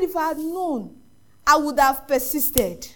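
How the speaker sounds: slow, drawn-out mock lament; retold anguished regret. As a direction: stretch out the regret, retelling his grief. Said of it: "he cried".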